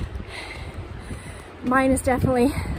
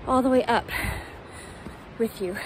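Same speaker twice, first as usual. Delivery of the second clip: breathless from climbing stairs; winded, talking between breaths; faster than usual. Real, not acted. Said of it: "Definitely hard".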